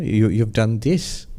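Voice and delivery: mild, loving correction; affectionate reproach. Retold or imitated.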